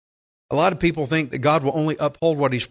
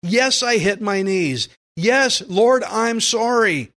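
fervent prayer; 5 semitones higher, slower than usual. Pretend. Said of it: "It should produce genuine thankfulness".

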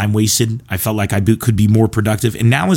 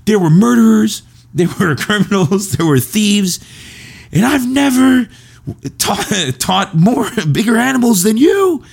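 angry teacher impression; 11 semitones higher than usual. Comedian imitating his history teacher's rant, high and furious. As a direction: squeal it out like an enraged teacher. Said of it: "he was like, he'd get pissed off".

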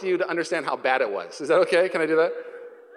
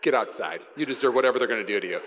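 lower, fast stern mother; stern mom; 7 semitones lower than usual. Retold or imitated. Mom sending her son out to be punished, stern. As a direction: order him out coldly. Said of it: "my mom's like".

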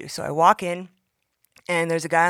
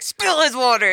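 devilish inner voice; 6 semitones higher, 6 dB louder than usual. Retold or imitated.

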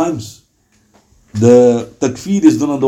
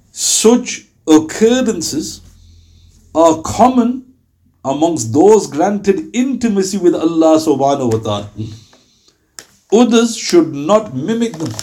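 formal reading; slower than usual. Acted. Reads a scholar's text aloud.

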